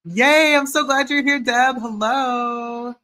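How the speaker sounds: high, loud delighted greeting; excited. Real, not acted. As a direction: gush over the new arrival. Greeting a viewer joyfully.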